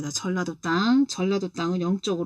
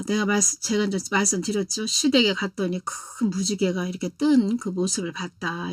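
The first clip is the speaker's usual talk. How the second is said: usual speaking voice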